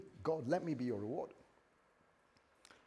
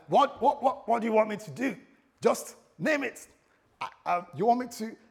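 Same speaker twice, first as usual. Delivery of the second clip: eager, much higher and louder, tumbling out; bursting to hear what she wants; pumped up; 7 semitones higher, 8 dB louder than usual. Retold or imitated. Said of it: "I was pumped up at this time".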